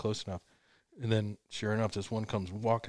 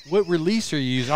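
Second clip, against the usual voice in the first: rapid question; 5 semitones higher, 6 dB louder, faster than usual. Retold or imitated. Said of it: "All these questions start".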